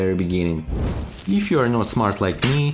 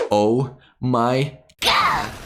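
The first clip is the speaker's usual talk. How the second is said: oh... my... God, word by word; slow, separated words of mock shock; drawn-out dismay; much slower than usual. Drawn-out shock at meme image.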